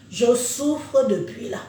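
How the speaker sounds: slow, drawn-out words; slow motion. Real, not acted. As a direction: speak slowly, worn down by illness. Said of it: "Je parle au ralenti".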